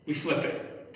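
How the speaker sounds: breathy hushed whisper; library whisper. Real, not acted. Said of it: "I am in a library right now".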